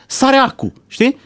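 high-pitched mock yelling at moderate volume; mock outburst. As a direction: imitate someone jumping up in agitation. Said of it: "Și țipă".

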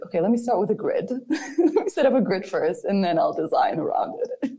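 laughing through a timid self-quote. Retold or imitated. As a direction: giggle while quoting yourself. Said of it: "I'm always like".

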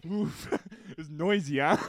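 slow, chuckling through the words; laughing stranger. Retold or imitated. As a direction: quote him laughing at the noise. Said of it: "he goes like".

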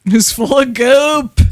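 loud, slow, playful repeat; loud drawn-out echo. Acted. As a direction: stretch it out loudly. Echoed louder, slower.

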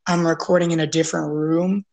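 echoey room sound; slightly echoey, recorded elsewhere; from another room. Real, not acted. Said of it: "it's kind of echoey".

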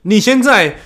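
every syllable rising like a foreigner; mock foreigner Mandarin, all rising tones; foreign accent. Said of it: "洋腔洋调是这样".

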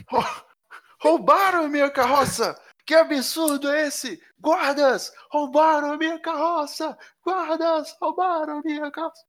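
high, frantic robbed merchant; shouting merchant. Acted. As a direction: cry for the guards, panicked. Merchant calls for guards. (mercador gritando pelos guardas)

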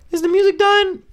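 very high mock confused voice; imitating the lady. Lady asking if the show is over, very high. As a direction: ask it in a small, high lady voice.

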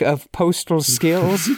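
reading aloud in a lightly put-on Irish accent; a hint of hammy, amateur Irish brogue; awful Irish accent. Shown as a demonstration. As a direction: try a little bad Irish accent. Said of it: "awful accent".

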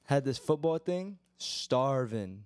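talking through a mouthful; speaking round a bite of food; chewing while talking. Real, not acted. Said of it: "I'm gonna go munch".

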